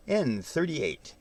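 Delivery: slow drawn-out bingo call; bingo caller. Shown as a demonstration. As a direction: announce it like a bingo hall caller. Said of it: "Sound like a bingo caller".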